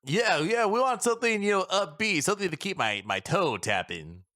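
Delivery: high, eager hype, slowing at the end; eager agreement. Acted. Hamon backing the upbeat song, eager and high. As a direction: pump up the request. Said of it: "He's just like".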